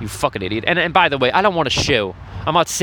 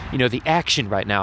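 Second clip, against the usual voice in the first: softer, hushed so passers-by won't hear; speaking quietly so nearby people can't hear; keeping it down; 6 dB quieter than usual. Real, not acted. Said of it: "just enough away from all the people going by so they don't fucking hear me".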